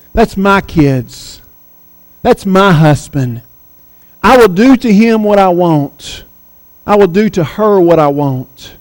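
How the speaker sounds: lightly voiced menacing devil; a hint of Satan's menace. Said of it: "He's roaring to you, saying".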